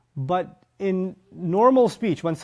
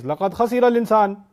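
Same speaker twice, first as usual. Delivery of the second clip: raised, forceful pronouncement; emphatic declaration; 5 semitones higher, 5 dB louder than usual. Shown as a demonstration. Teacher voicing another wording to class, emphatic and loud. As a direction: declare it high and loud as a verdict. Voices an alternative emphatic verbal statement.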